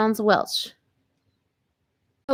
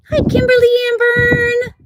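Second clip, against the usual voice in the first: bright greeting; 5 dB louder than usual. Real, not acted. Greeting friend on live stream.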